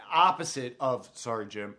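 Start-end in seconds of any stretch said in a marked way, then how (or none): 1.1-1.7 low, soft deadpan apology; imitated monotone, dropped low and quiet; monotone Bosa voice. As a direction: echo a lifeless athlete's apology. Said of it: "he is a monotone motherfucker".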